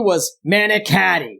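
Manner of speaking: manicotti said first with open ah, then manicotti with flat nasal a's; mock Buffalo vowels on manicotti; Buffalo pronunciation. Shown as a demonstration. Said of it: "the worst thing is them just pronouncing food".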